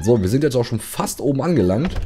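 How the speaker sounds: light extra weight on "fast"; "fast" slightly lifted, the rest plain; stress on fast. Shown as a demonstration. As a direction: lean a little on "fast" to make the point. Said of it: "die Betonung liegt auf fast".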